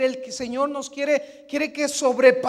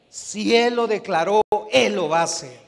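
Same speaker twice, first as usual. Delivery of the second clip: growing louder into a full shout; building preacher shout; 13 dB louder than usual. Real, not acted. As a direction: build each line till you're shouting. (predicador que sube hasta gritar)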